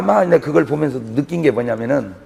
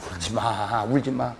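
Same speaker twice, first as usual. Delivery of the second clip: "울지 마" said much softer and lower; a hushed, gentle don't-cry; soft comfort; 6 semitones lower, 11 dB quieter than usual. Retold or imitated. Mother of a Seoul-University child soothing grieving mother, softly. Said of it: "말은 똑같잖아".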